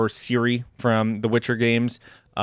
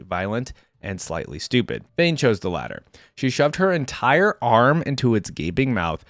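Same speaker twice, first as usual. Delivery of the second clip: measured story-reading voice; story narration. A narrator's reading. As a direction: read it like an audiobook action scene. Reads story aloud.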